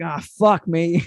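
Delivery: slow, deflated self-reproach; resigned regret. Acted. Man regretting he said yes, mock-resigned. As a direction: drag it out as it sinks in.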